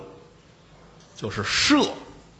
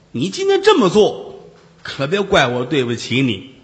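a hint of a haughty vixen, threatening; lightly voiced demon woman; 2 semitones higher than usual. (轻度扮演的女妖，傲慢威胁)

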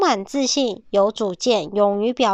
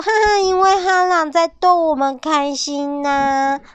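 higher cheerful laughing voice; happy piglet; 7 semitones higher, 3 dB louder than usual. Acted. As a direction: giggle out the reason.

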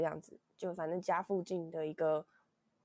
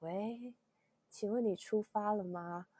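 softer, slow, feeble voice; weak voice; 2 semitones higher, 4 dB quieter, slower than usual. Retold or imitated. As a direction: sound sick and drained on the phone. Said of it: "我就用这个虚弱的声音说". (虚弱无力、轻声慢慢地说)

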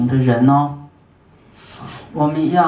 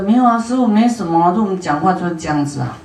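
quick, higher, breezy brush-off; imitating the disciples; 3 semitones higher, much faster than usual. Disciples brushing off their master's concern, breezy and quick. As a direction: toss it off lightly like the careless disciples. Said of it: "可是他们觉得".

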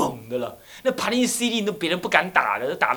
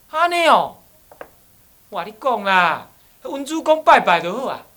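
put-on old woman, insistent; 8 semitones higher, 10 dB louder than usual. Old woman gives loud advice.

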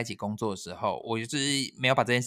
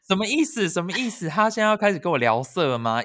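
alarmed inner voice; 7 semitones higher, 4 dB louder than usual. Retold or imitated. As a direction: panicky and higher, thinking aloud. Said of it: "我的警报就响". (惊慌地尖声自问)

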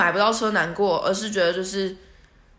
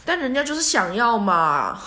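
whiny plea; 4 semitones higher, 4 dB louder than usual. Pretend. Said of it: "然后我就心想说".

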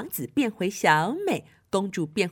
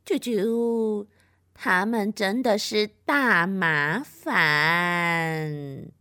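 pigeon and squirrel; 2 semitones lower, much slower than usual. Acted. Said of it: "鸽子仆人还有松鼠士兵就说".

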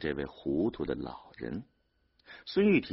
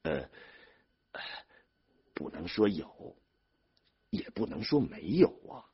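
hesitant hedging; 3 semitones higher than usual. A narrator's reading. Older brother hedges when challenged.

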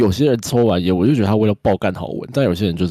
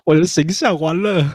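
laughing dismay; 10 semitones higher, 4 dB louder, slower than usual. Real, not acted. Laughing embarrassment after tease.

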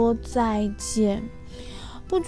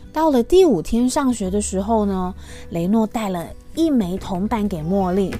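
gentle, lively storybook voice; reading to a toddler. Acted. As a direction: read it sweetly to little kids.

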